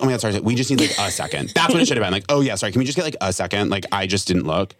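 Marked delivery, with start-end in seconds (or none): 0.0-1.5 apologetic sweet tone. Shown as a demonstration. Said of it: "So I should have been like". 2.3-4.7 still rude. Shown as a demonstration. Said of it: "It still sounds rude".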